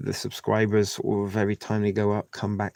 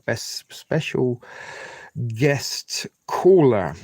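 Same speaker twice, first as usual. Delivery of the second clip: mock announcer; 2 semitones higher, 4 dB louder, much slower than usual. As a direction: hype it up like a TV announcer. Hyping up a past guest.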